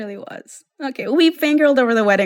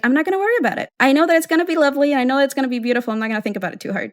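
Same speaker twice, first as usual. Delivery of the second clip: self-reassurance; 5 semitones higher, much faster than usual. Retold or imitated. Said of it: "And I was like".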